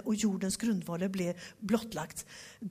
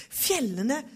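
usual speaking voice

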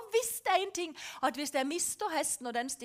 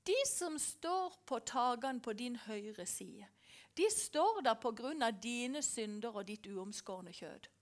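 Holy Spirit whispering; 5 semitones lower, 8 dB quieter than usual. Retold or imitated. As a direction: hush it like a voice from above. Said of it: "taler Den hellige ånd".

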